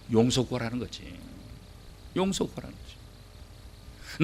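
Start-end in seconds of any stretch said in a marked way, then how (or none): 2.2-4.2 slow, soft unvoiced whisper; whispered repeat. Shown as a demonstration. Preacher repeating the point to the congregation in a slow whisper.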